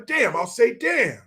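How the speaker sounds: high, mock-earnest politician voice; Biden. Politician trying to talk like regular people, high mock voice. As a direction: try out the cuss word in a put-on high voice. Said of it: "I was talking like Biden".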